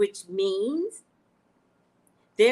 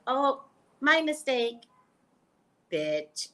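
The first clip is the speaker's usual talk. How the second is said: mock Roseanne Roseannadanna; 4 semitones higher, slower than usual. Imitating the comic character's fake apology on the sketch show. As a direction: play the dim comic then snap the last word. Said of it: "she would be like".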